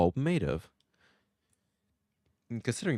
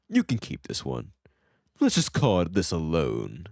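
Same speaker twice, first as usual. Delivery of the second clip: gruffer voice; 2 semitones higher, 4 dB louder than usual. Acted. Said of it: "gruffer voice".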